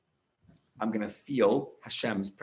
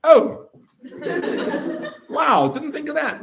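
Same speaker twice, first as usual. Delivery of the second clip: high, loud amazed gasp of discovery; a dad suddenly getting it, high and amazed; surprised realization; 14 semitones higher, 5 dB louder than usual. Retold or imitated. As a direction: sound struck by a new idea. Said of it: "He's like".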